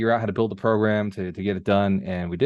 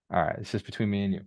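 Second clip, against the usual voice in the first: confiding; 5 dB quieter, faster than usual. Real, not acted. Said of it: "everybody on the call can keep a secret".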